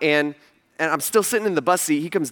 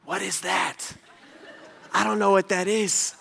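bemused laughing reply; 6 dB quieter than usual. Retold or imitated. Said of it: "And I'm like".

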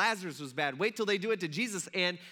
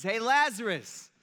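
drawn-out call, louder and higher; mild acted shout; 4 semitones higher, 5 dB louder, slower than usual. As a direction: call out to someone, half-shouting. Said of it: "he shouted with a loud voice".

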